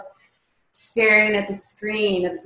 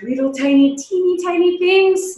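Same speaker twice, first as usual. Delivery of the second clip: pitched up high for tininess; 9 semitones higher, 4 dB louder than usual. Real, not acted. Teacher describing minute particles to the class, teeny-tiny high voice.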